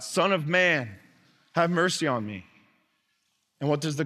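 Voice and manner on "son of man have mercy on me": a beggar calling out, only slightly raised; lightly voiced plea from the roadside; mild call for mercy. Blind beggar calls to Jesus, mild call. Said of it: "and he yells out".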